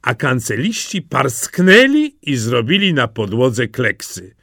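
ordinary delivery, nothing marked

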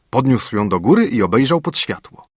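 ordinary delivery, nothing marked

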